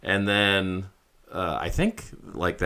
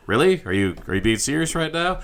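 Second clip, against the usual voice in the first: pitched way up in mock shock; surprised disbelief; 8 semitones higher, 3 dB louder than usual. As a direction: act stunned, can he be serious. MJ's shocked reaction, retold.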